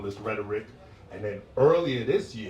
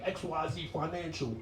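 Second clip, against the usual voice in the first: smooth finance ad; 5 semitones higher, 6 dB quieter than usual. Retold or imitated. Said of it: "first commercial be like".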